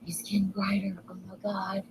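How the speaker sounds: real hushed whisper of wonder; whispering in awe at the sky; awed whisper. Real, not acted. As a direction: breathe it out in awe. Awed by rainbow overhead.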